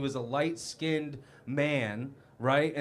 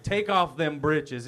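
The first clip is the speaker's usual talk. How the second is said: Texas drawl; slower than usual. Retold or imitated.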